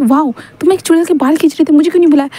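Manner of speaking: delighted she missed the fun; high gleeful wow; excited squeal. Acted. Rose excited about hair pulling.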